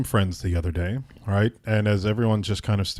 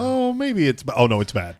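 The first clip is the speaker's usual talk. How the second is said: imitating dawning worry; 5 semitones higher, 4 dB louder than usual. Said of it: "that gradually went from like".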